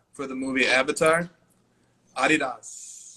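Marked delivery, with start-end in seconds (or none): 2.2-3.2 "Adidas" drawn out slowly, ah-DEE-das; a slow, lowered ah-DEE-das in the European way. Shown as a demonstration.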